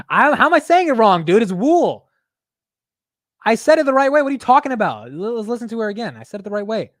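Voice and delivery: high, loud, exasperated insistence; indignant protest. Real, not acted. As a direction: protest that you said it properly. Defends own pronunciation against the recording.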